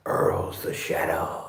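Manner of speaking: low, slow, hushed whisper; spooky whisper. Pretend. Shadow game with the pet, low spooky whisper. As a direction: breathe it like a ghost story.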